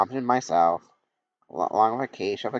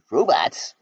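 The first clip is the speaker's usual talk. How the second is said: Robots? asked higher in disbelief; surprised echo; 8 semitones higher, 3 dB louder than usual. Acted. A friend hears robots called friends, startled question. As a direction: throw the word Robots? back, startled.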